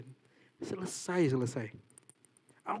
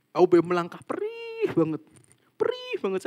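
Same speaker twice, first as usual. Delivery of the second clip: anguished cry; 4 semitones higher, 10 dB louder than usual. Retold or imitated. Prayer cry of pain.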